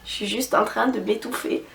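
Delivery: choking while talking; strained, choking on something. Real, not acted. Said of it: "donc désolée je m'étouffe".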